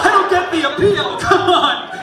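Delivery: stand-up bit. Pretend. Comedian performs for patients, high loud hammy shout. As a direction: bust into a hammed-up comedian routine.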